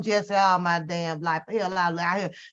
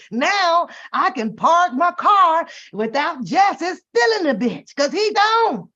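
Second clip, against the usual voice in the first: slow, louder, higher celebration; gleeful relief; 6 semitones higher, 4 dB louder, slower than usual. Retold or imitated. Neighbor celebrating parking without Jesse, gleeful. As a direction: savour the freedom out loud.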